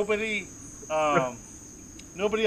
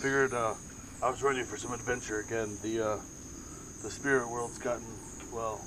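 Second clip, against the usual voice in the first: put-on drunken Momo voice; 4 semitones lower than usual. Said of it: "the drunken voice that Aang sees for Momo".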